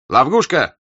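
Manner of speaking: «Лавгушка» shouted, the R turned to a throaty G; says w for r. A narrator's reading. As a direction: yell «Лавгушка» angrily with a burred R. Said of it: "картавя на «Р», громко и сердито".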